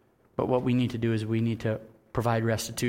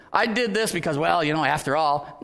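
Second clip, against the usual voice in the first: excuse-making; 3 semitones higher, 4 dB louder than usual. Shown as a demonstration.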